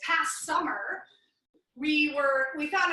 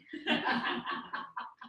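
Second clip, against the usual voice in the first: mimed laughing; 6 dB quieter than usual. Retold or imitated. Acting out mother-in-law on dock.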